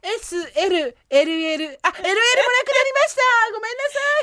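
high, urgent sold-out news; excited. Pretend. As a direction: apologise brightly as stock vanishes. Mock sold-out announcement.

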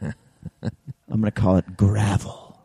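very slow Sling Blade style drawl. Shown as a demonstration. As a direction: drag out the words in a drawl. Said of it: "a little bit of a drawl".

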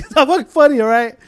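mock upset outburst. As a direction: act out a rattled man objecting. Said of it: "fucking halfway in a tear".

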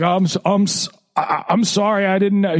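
flustered, caught out; nervous man. Retold or imitated. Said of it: "He's like".

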